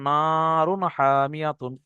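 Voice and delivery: slow, chanted Quranic reading of নারুন হামিয়াতুন, the n said plainly before the h; recited clearly, no nasal hold. Shown as a demonstration. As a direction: recite নারুন হামিয়াতুন slowly, no humming of the n in the nose. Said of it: "শুধুমাত্র পড়ে চলে যাব". (ধীরে তিলাওয়াতের সুরে নারুন হামিয়াতুন, নাকে গুন্নাহ ছাড়া)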